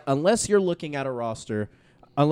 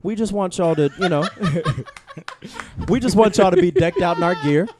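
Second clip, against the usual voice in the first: laughing; 3 semitones higher, 4 dB louder than usual. Acted. Sultry merch plug breaks into laughter.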